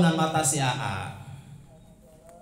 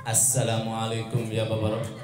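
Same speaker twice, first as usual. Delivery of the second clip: "Assalamualaikum ya babar rahmah" said slow, lower and softer; trembling and slow; 7 semitones lower, 4 dB quieter than usual. Acted. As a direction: creep through the greeting in fear. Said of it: "Dengan penuh gemetar dan pelan-pelan".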